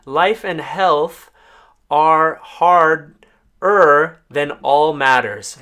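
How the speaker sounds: "harder" drawn out, slow and loud; teacher reads the full translation slowly to learners, stressing each word; slow emphatic gloss. Shown as a demonstration. Slow emphatic reading. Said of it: "we put it all together and we say".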